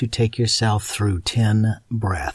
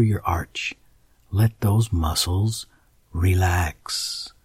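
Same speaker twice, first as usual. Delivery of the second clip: guided meditation. Acted. Guided muscle relaxation.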